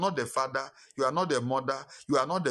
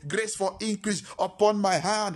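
fervent prayer. Acted.

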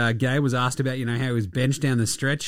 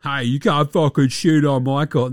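mock tough guy. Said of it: "I have to be the tough guy".

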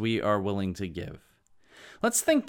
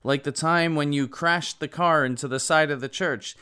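lightly voiced exasperated husband, pitched up; husband objecting; 5 semitones higher, faster than usual. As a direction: lightly act a husband scolding his wife. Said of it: "Then the husband said".

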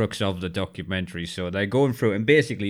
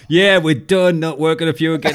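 mock firing; 7 semitones higher, 5 dB louder than usual. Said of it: "I'd be like".

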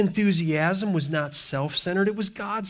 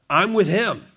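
louder, punching WITH in "I'm with him"; firm declaration of loyalty, stress on "with"; emphatic restatement; 4 dB louder than usual. Shown as a demonstration. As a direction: say it again with conviction, leaning on "with". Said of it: "here's my statement".

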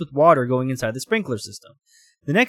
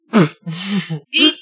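squeal; 5 semitones higher, 4 dB louder than usual. Acted. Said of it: "Bobby squealed".

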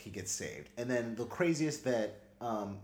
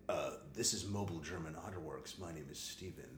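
fake receptionist; 8 semitones lower, 11 dB quieter than usual. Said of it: "as a different person".

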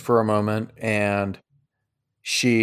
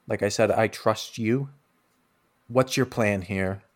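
quiet princess; 5 dB quieter than usual. Acted. Scene: the princess confides to Silas, hushed and serious. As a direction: lean in and speak softly to him.

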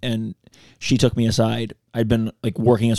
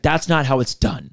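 slow firm boss; 3 semitones higher, slower than usual. Retold or imitated. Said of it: "she's like".

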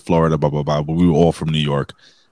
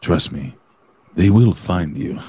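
slow, put-on Spanish accent; careful Spanish-accented English, syllable by syllable; 2 semitones lower, slower than usual. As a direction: read it as a mock Spanish speaker. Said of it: "do it in a Spanish accent".

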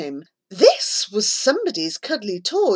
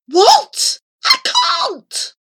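panicked protest; 5 dB louder, much slower than usual. A narrator's reading. Boy refuses desperate idea.

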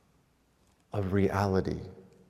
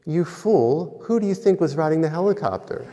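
Jesus teasing, laughing; 6 semitones higher, faster than usual. Acted. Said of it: "And Jesus says to him".

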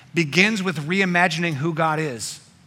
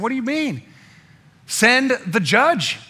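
put-on outraged older brother; 6 semitones higher, 3 dB louder than usual. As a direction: scoff at the brother, then demand judgment. Older son outraged at younger.

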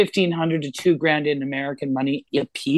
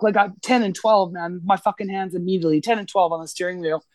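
ordinary talk, nothing marked

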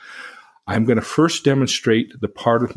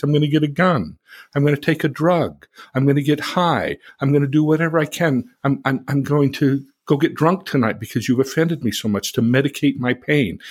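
mild angry venting; 4 semitones higher than usual. Shown as a demonstration. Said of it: "the temporal, the animal".

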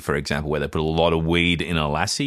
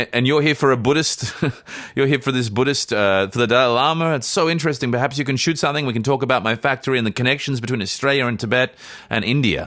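put-on Indian accent; 4 semitones higher than usual. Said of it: "go full Indian".

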